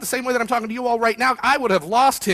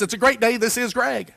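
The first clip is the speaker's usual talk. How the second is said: upbeat phone greeting. Retold or imitated. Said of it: "I answer the phone like this".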